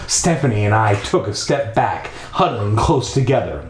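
measured storytelling read; story narration. A narrator's reading. Narrator leading listeners through a creepy house, storytelling voice. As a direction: read it out with deliberate pacing.

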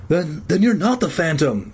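unsure, faltering start; uncertain. Acted. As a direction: ask it hesitantly.

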